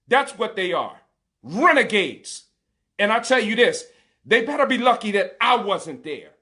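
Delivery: heated, rising anger at the police; a father's real fury, pushed but not shouting; enraged rant. Real, not acted. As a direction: let the outrage build through it. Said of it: "and I'm enraged".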